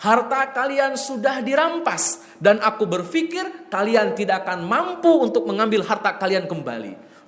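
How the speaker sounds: mock herald crying out the news; hammed-up alarm announcement; imitated dramatic proclamation. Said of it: "Dia teriak-teriak, pokoknya dibikin heboh".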